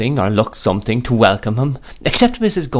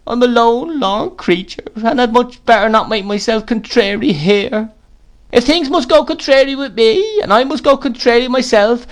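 self-pitying widow crying out; 11 semitones higher than usual. A narrator's reading. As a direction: wail out her lone, lorn misery. Plays Mrs Gummidge.

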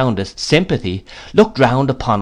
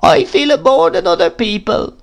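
much higher whining widow voice; Mrs Gummidge complaining; 9 semitones higher, 4 dB louder than usual. A narrator's reading. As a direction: pitch her up and make it a complaint. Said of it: "said Missus Gummidge".

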